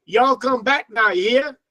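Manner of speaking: lightly put-on American Southern accent; a hint of Southern US twang. Shown as a demonstration. Giving an example to learners, light Southern US accent. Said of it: "we have a Southern accent".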